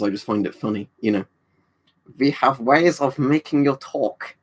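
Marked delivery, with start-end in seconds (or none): 2.2-4.4 slow, menacing mock German villain; hammed-up war-film interrogator; slow, cartoonish German villain line; Hollywood German accent. Mocking Hollywood German villain clichés.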